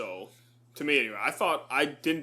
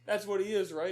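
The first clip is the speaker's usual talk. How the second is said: put-on British accent; 8 semitones higher than usual. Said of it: "The British guy is like".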